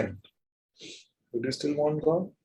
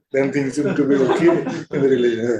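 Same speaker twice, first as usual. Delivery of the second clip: laughing mockery. Real, not acted.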